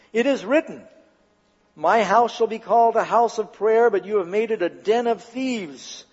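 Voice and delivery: a touch of trumpet-like authority; ringing proclamation. Acted. Jesus rebukes the temple traders, ringing proclamation. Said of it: "His voice sounded like a trumpet".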